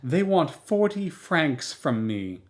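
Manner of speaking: still laughing. Acted. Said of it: "still laughing".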